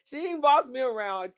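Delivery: high cry of laughter; laughing shout. Real, not acted. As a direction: shriek it while cracking up.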